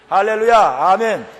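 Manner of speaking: very loud, high hallelujah and amen; rallying acclamation. Real, not acted. Preacher calling the congregation to respond, exultant. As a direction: proclaim it to rouse the congregation.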